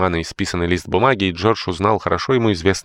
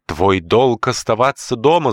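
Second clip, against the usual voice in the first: stern declaration; 6 semitones higher, 4 dB louder, slower than usual. Acted. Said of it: "заявила Маунтин, топнув ногой".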